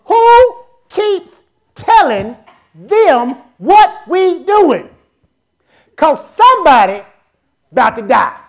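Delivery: a hint of an enraged king, high and drawn out; furious king. King demands who betrays his plans, angrily. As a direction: play the king demanding answers. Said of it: "This how the king was".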